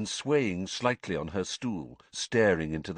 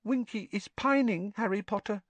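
sad whisper; 13 semitones higher than usual. Acted. Dobby sadly confides in Harry, hushed elf voice. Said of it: "Dobby whispered sadly".

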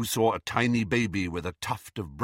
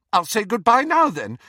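bitter; 11 semitones higher, 8 dB louder than usual. A narrator's reading. Ginny gives up bitterly.

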